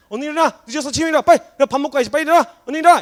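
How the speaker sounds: loud, high, insistent calls; urgent wake-up nagging. Acted. Mother waking a child who is late, loud urgent nagging. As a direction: shout a sleeper awake, hurrying them. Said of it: "이렇게 해서 늦었다고 깨우신단 말이에요".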